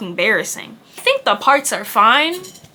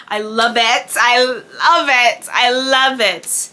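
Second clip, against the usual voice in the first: delighted; slower than usual. Real, not acted. Delighted with the hair.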